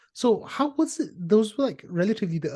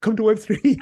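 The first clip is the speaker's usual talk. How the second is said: mock pitch; 5 semitones higher, 8 dB louder than usual. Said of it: "So I was like".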